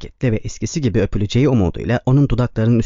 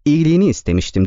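karşı çıkarak; 5 semitones higher, faster than usual. Acted. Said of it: "diye karşı çıktı kız".

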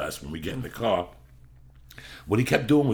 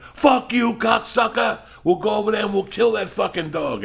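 roaring insults at full volume, pitch flying high; furious shout; 8 dB louder than usual. Retold or imitated. Friends yelling threats at a stranger with a dog, screaming loud. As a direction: yell it across the street to pick a fight. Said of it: "we start yelling back and forth".

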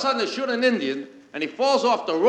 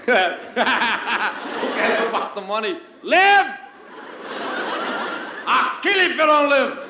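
mock desperate plea; 2 semitones higher, slower than usual. Pleading with the screen.

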